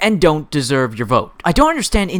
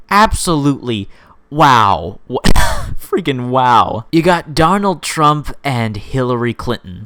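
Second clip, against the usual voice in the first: usual speaking voice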